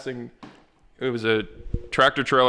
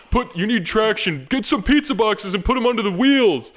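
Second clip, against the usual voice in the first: mock drunk friends; 11 semitones higher, 5 dB louder than usual. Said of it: "They're like".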